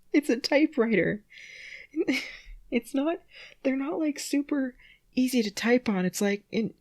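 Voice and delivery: high, giggly, breaking into laughs; laughing. Real, not acted. Reader still laughing at the typo, giggly. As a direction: laugh through the explanation.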